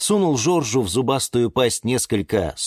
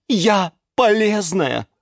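high-pitched triumphant crowing; high, emphatic bragging; boastful shouting; 12 semitones higher, 4 dB louder than usual. A narrator's reading. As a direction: boast at a rival loudly. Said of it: "закричала герань Антонина".

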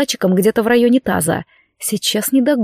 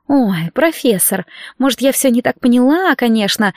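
chirping; 2 semitones higher than usual. Acted. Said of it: "прощебетала она с победной улыбкой".

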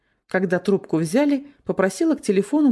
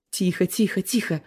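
сердито. A narrator's reading. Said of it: "разозлилась я".

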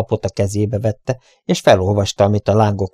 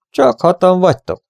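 much higher, astonished; surprised question; 9 semitones higher than usual. Acted. Derek facing the surrendered bandits, surprised. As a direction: wonder aloud at how few. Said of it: "csodálkozott Derek".

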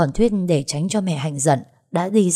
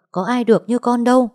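higher, louder reproach; exasperated scolding; 6 semitones higher, 3 dB louder than usual. Acted. Mother scolding her daughter about the affair, exasperated.

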